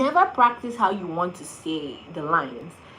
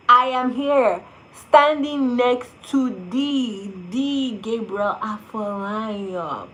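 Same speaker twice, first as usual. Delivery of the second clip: louder, very slow savoring of the name; slow awed emphasis; 3 semitones higher, 4 dB louder, much slower than usual. Real, not acted. Telling viewers she stood by Gabriel, slow awed emphasis. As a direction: linger on each word in awe. Starstruck beside the actor.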